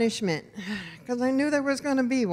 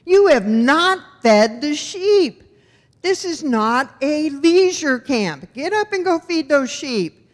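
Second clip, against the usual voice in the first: higher and slower, an imitated angry father scolding; angry dad; 6 semitones higher, 5 dB louder, slower than usual. Dad scolding the kids for not feeding sheep, mock angry. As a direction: play the furious dad storming over. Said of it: "stomping over, huffing and puffing, going".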